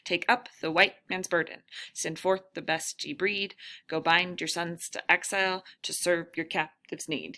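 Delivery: poem read in its iambic beat, each stressed syllable marked; sing-song rhythm. Shown as a demonstration. Teacher showing the class the poem's rhythm, beat marked. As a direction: bring out the rise and fall of the stressed and unstressed syllables. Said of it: "You hear how that kind of, that rhythm kind of repeats".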